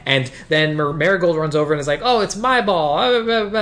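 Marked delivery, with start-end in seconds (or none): 2.0-3.6 high, lightly mocking kid voice; lightly voiced childish character. Retelling Marigold running over for the ball, lightly childish mock voice. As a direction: pitch it up like a babyish tattler.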